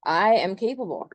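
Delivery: emphatic "I", then a falling "capable"; affirming, stress on I. Acted. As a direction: affirm it firmly, weight on "I". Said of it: "really affirming yourself".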